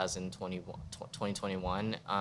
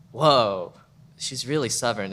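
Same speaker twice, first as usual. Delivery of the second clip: surprised exclaim; 3 semitones higher, 9 dB louder than usual. Retold or imitated. Reacting to a friend's video.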